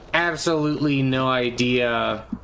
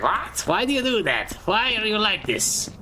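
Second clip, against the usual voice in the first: higher, mock baffled questioning; bemused alien asking why; high puzzled mock scolding; puzzled Necron voice; 5 semitones higher than usual. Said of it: "being like".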